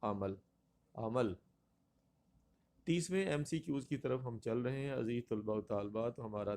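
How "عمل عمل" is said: عمل as "a-mal", two short a vowels; correct pronunciation. Shown as a demonstration. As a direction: say عمل as "a-mal", each time separately. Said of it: "درست لفظ ہے ہمارا".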